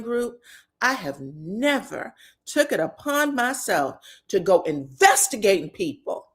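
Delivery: drawn-out, emphatic mock quote; Quad. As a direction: stretch the key words, lightly imitating her. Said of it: "And that's when Quad was like".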